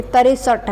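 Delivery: तिरसठ said slowly as "तरेसठ"; local pronunciation. Retold or imitated. Teacher mimics local sixty-three. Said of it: "हम तिरसठ को तिरसठ नहीं पढ़ते".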